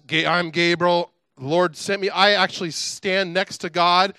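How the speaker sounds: indignant angel pulling rank, mildly acted; imitated huffy self-introduction; getting ticked. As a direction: build mild offence, stressing your standing. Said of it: "he's getting ticked".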